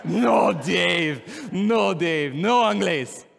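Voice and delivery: put-on loud, firm Spanish-accented no; emphatic accented refusal; Sahid impersonation. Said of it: "Doing my best Sahid impersonation".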